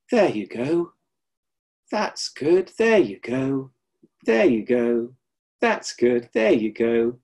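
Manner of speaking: light, repeated reassurance as hands guide the neck; soothing teacher patter. Retold or imitated. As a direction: coax the pupil along kindly. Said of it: "That was his patter".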